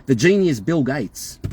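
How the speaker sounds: slow, mock-admiring sarcasm; mock praise, measured pace; sarcastic. Real, not acted. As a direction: draw the title out sarcastically. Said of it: "I'm obviously being sarcastic".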